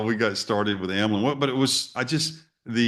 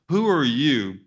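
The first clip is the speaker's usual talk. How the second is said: higher, indignant reading of his angry email; upset email; 4 semitones higher than usual. Retold or imitated. Man rereading his angry email to the school, indignant. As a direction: rant it out, affronted. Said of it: "I write this very upset email".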